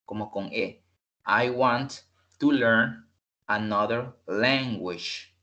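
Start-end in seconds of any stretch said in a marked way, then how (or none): 1.3-5.4 slow, careful "I want to learn another language"; slow model sentence. Shown as a demonstration. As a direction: say it slowly as a model for students. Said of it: "sino que language". (oración modelo lenta)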